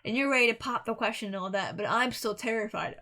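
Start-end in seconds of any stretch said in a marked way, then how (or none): 1.8-3.0 words stretched by a yawn. Real, not acted. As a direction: yawn through the line. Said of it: "I don't mean to yawn".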